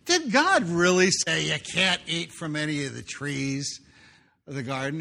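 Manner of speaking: sneering, taunting question; mock the listener like a smug serpent. Preacher voicing the serpent mocking Adam and Eve, sneering. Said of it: "He starts out mocking".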